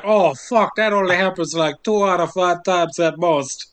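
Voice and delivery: lightly voiced movie villain, cartoonish; Jon Voight impression. Podcaster plays the hunter who hit two heads, mild character voice. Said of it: "your job voice, voice has turned into, like, Strong Bad's".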